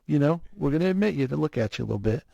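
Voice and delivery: imitating an easygoing doctor soothing a patient; lightly reassuring, casual bedside patter; calming reassurance. Specialist telling a scared patient he is being monitored, calming. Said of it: "that's, like, super calming".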